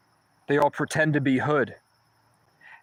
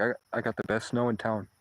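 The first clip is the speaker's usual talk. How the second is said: sly hushed sales pitch; 3 semitones lower, 6 dB quieter than usual. Retold or imitated. Dealer pitch offered to college kid.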